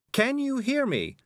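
very high, drawn-out call; distant, high, stretched question; faraway voice. A narrator's reading. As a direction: call as if from a long way away. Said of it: "her voice a long way away".

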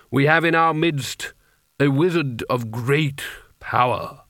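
measured ceremonial proclamation; intoning. A narrator's reading. Carding presents Coin to the assembled wizards, intoning. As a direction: intone it, stretching the last words. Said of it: "he intoned".

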